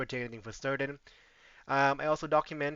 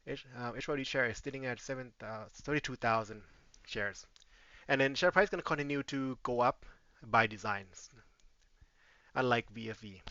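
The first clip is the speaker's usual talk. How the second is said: catching breath between phrases; winded, breathing between words. Real, not acted. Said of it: "I'm catching my breath".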